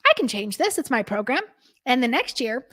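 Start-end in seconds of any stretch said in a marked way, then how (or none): 0.0-1.4 realization. Retold or imitated. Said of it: "I was like".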